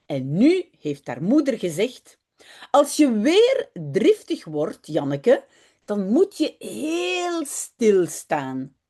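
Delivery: put-on reading a Dutch children's story aloud, lively. Teacher reads Jip and Janneke to the class, lively storytelling. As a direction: tell it like a bedtime story for kids.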